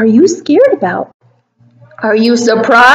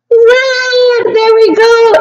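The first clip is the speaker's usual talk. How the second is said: higher, bright cheer; excited; 8 semitones higher, slower than usual. Acted. Teacher cheers the children's right answer excitedly. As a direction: celebrate the answer with the kids.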